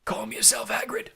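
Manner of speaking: high-pitched, sharp reproof. A narrator's reading. Dumbledore reins in the yelling Hagrid, sharply. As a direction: rein him in without shouting. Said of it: "said Dumbledore sharply".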